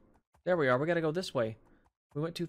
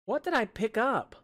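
surprised question; 10 semitones higher, 6 dB louder than usual. Real, not acted. Surprise at item picked up.

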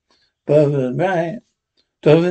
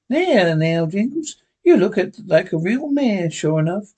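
higher, lightly voiced fond old lady; an old lady admiring Jingles; Abby's voice; 3 semitones higher than usual.

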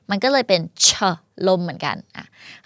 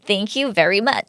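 slow demo; much slower than usual. Shown as a demonstration. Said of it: "final slow model sentence".

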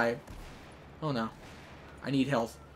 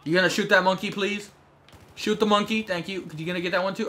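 higher, pointedly polite asking; mock-polite prodding; 5 semitones higher, 3 dB louder than usual. Real, not acted. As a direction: prod a teammate with exaggerated politeness.

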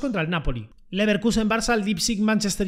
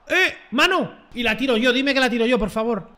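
excited claim; 3 semitones higher than usual. Real, not acted. Claiming a handball penalty.

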